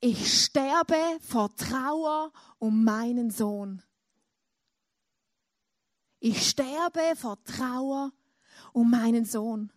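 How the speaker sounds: slow, heavy voice of a grieving father; a hint of a broken father, slow; grieving lament. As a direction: drag out each word of sorrow. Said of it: "Und er hat gesagt".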